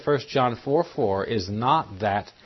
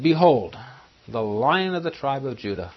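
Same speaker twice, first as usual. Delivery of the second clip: elder's announcement; 3 semitones higher than usual. Acted. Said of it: "The elder said".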